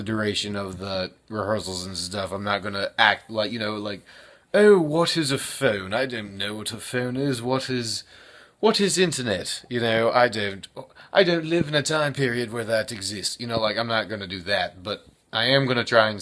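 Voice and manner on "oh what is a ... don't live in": mock Shakespearean-era man. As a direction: lightly play a puzzled man from Shakespeare's era hearing of phones. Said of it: "act like I'm in the Shakespearean era".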